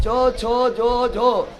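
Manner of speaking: चो छो जो झो drawn out, tongue to palate; palatal sounds. Shown as a demonstration. Teacher has students feel tongue contact, slow palatal चो छो जो झो. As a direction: slowly show the palate contact in चो छो जो झो. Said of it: "बोल के देखो सट रहा है".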